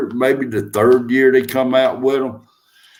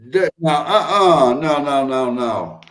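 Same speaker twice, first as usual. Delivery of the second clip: mock crying; 3 semitones higher than usual. Disgust at rats in kitchens.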